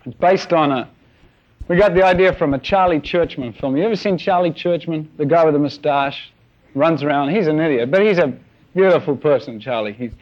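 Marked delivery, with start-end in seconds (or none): none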